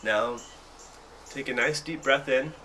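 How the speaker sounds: measured meditation guidance with long pauses; unhurried guided meditation voice, leaving room to breathe. Acted. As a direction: lead them gently into breathing, phrase by phrase.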